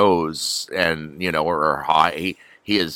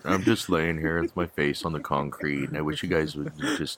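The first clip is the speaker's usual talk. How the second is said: dog voice; 2 semitones lower than usual. Pretend. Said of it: "do your version of the dog voice".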